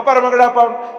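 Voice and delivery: put-on child pleading. Son begging father for sweets at the fair, pleading. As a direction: whine like a little boy tugging dad.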